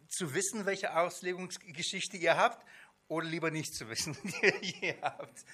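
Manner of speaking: laughing. Real, not acted. Teacher teasing the class about their prior interpretations, laughing. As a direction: laugh it off while teasing the group.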